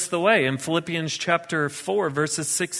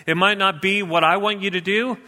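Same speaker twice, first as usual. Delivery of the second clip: a higher, louder, earnest voiced prayer; sample prayer; 5 semitones higher, 3 dB louder than usual. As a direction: pray it out as an example for the listeners. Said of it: "have you actually paused and just said".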